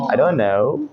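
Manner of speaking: "don't" running into know without t. Shown as a demonstration. Teacher demonstrates casual American phrase, "don't" without its t. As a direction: drop the t of "don't". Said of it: "डोंट का बन जाएगा डॉन".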